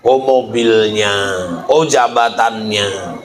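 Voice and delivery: low, slow, impressed oh over the car; drawn-out low mock awe at wealth; mock admiring. Mocking those who pick a spouse for wealth, low slow admiring oh. Mocking materialistic bride-seekers.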